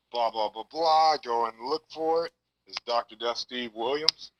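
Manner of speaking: like a caller on speakerphone; phone speaker. Real, not acted. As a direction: voice over a speakerphone line. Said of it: "You're on speakerphone right now".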